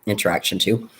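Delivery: chewing while talking; words around a mouthful of food; mouth full. Real, not acted. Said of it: "I'm talking with my mouth full".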